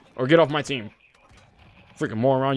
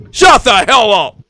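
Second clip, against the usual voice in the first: slow shout; 4 dB louder, slower than usual. Real, not acted. Shouting at teammate.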